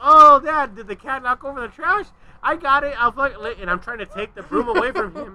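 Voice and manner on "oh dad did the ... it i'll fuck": high, loud, fake-casual cheer; overly sweet high voice. Son to his dad, hiding a sex toy, high and loud. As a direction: brightly cover up the embarrassment. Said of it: "My voice keeps going higher and higher".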